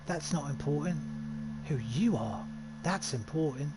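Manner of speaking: lightly voiced East London lad; a touch of East London accent. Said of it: "I'm kinda giving him that accent".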